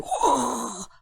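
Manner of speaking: long breathy roar; imitated roar. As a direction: huff it out like a pouncing lion. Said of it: "그 소리". (숨을 뿜는 포효 흉내)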